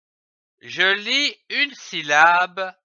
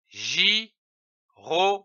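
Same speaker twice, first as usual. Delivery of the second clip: slow blended syllables; 3 semitones higher, slower than usual. Shown as a demonstration.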